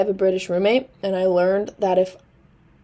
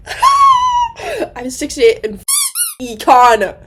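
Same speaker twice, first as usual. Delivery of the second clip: laughing confession; 6 dB louder, much slower than usual. Real, not acted. Confessing her bad econ grade.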